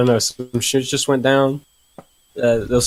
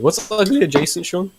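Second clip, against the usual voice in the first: voice cracking; 4 semitones higher than usual. Real, not acted. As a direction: voice breaking mid-question. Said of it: "my voice just broke".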